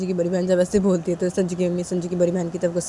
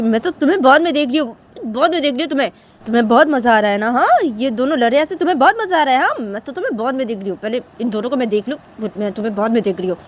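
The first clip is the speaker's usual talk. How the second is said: raised, loud warning; scolding mother; 5 semitones higher, 6 dB louder than usual. Acted. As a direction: threaten her for later. Mother threatens sister. (ऊँची आवाज़ में धमकाती माँ)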